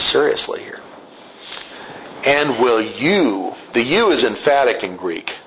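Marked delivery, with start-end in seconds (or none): 2.2-3.5 dripping scorn. Retold or imitated. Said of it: "There's this dripping scorn".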